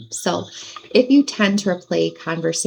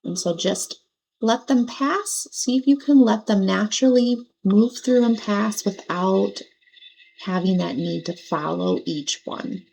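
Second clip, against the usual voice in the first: guided meditation. Acted. Meditation teacher helping listeners let their thoughts pass, gentle guidance. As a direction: ease them gently through the visualization.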